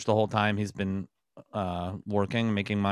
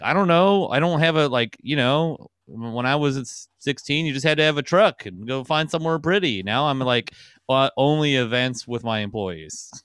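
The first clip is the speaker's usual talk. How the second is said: put-on awkward old billionaire; 4 semitones higher than usual. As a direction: play a fumbling older man lost at dating. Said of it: "Who's like".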